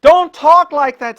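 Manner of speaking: loud, high-pitched distraught protest; panicked pleading. Acted. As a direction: plead desperately with someone giving up. Host pleads with dying Santa.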